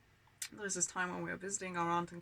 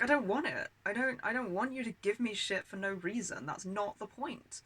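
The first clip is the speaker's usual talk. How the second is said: retold protest, higher pitch; angry and upset; 4 semitones higher than usual. Child refusing aunt's token money, angry and upset. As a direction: push back indignantly, pitch raised. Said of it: "really fucking angry and upset".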